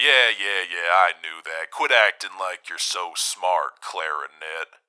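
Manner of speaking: loud, rough, gruff male voice. A character insisting he knew the other's name all along, gruff male voice. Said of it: "[gruff male voice]".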